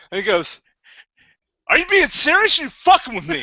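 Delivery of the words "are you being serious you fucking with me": hostile challenge. Retold or imitated. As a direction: challenge him as if insulted. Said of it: "With that much hostility".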